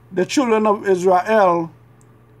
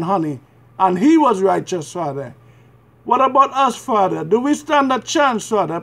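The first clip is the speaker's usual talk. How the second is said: earnest, measured prayer in short phrases; pleading prayer. Real, not acted. Praying to the Father for mercy and forgiveness, pleading. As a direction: pray as a penitent, pausing between pleas.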